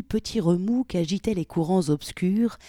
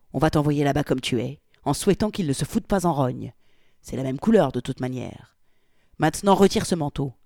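louder, curt orders; brusque; 4 dB louder than usual. Acted. Polly orders Victoria to remove the coat, brusque. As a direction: bark the orders abruptly. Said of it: "ajouta-t-il avec brusquerie".

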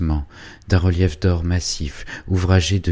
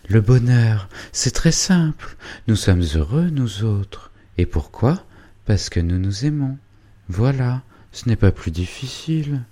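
put-on dreamy young girl; 5 semitones higher than usual. Angélique describes her dream.

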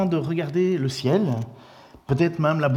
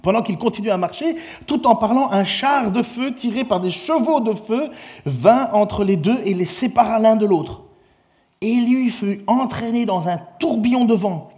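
higher, building scripture reading; dramatic reading; 7 semitones higher, 4 dB louder than usual. Acted. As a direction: let the chariot of fire rush in.

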